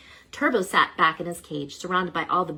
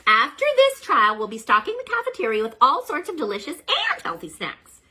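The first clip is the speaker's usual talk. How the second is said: reassuring teacher; 10 semitones higher, 8 dB louder than usual. Acted. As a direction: gently set the boy's mind at ease. Teacher promises snacks.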